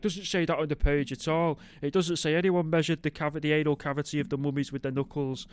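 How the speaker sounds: a hint of a pedantic classmate correcting the reader; mock pedantic classmate. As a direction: object like a fussy kid in class. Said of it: "people being like".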